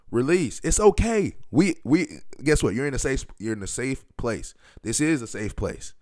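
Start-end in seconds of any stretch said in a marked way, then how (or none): 2.7-5.9 soft reassurance. Real, not acted. Comforting listeners.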